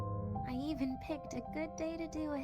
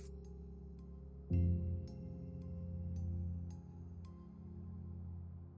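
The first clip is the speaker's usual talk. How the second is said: sigh; 4 dB quieter than usual. Acted. Dying character sighs, holding back tears.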